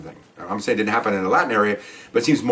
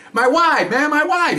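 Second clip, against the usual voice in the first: high-pitched, worked-up retold outburst; agitated wounded husband; slower than usual. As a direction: act out an upset husband, voice jumping high.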